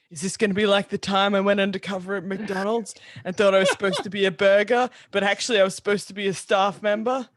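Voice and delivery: low fast inner thought; inner monologue. Acted. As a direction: rattle it off low in his head.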